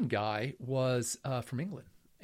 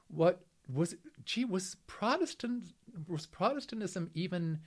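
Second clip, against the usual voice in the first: incredulous; 6 semitones higher, slower than usual. Retold or imitated. Retold disbelief at benefactor's demand.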